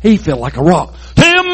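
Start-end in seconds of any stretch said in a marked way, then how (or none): 1.2-1.5 a high playful Timber! call; mock timber call. Preacher calling the giant's fall, playful shout. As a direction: call it like a lumberjack felling a tree.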